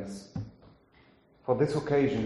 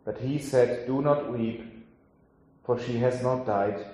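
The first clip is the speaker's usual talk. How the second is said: scripture reading. Acted. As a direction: read the passage as scripture to the congregation. Reads the Gospel passage aloud.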